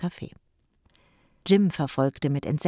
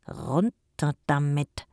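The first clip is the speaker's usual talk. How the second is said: grumbling; much slower than usual. Acted. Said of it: "meckerte Jim".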